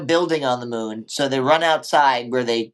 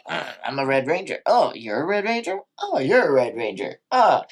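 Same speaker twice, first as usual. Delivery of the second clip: lightly voiced awestruck Rangers; mild mock surprise at each other; mock Ranger meeting; faster than usual. Podcaster acts out Red Rangers meeting, mildly surprised. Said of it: "be like".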